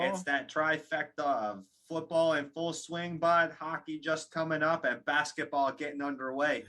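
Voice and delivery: a hint of a mock Canadian accent; lightly put-on Canadian accent, bud; teasing Canadian in-laws in a bad Canadian accent; terrible Canadian accent. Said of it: "I have a terrible Canadian accent".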